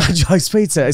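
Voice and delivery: a light Cockney accent on "A cheese pizza", "chaize paitsa". Shown as a demonstration. Jokes to his co-host in a light Cockney accent. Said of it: "trying to express my accent ... I'm a Cockney".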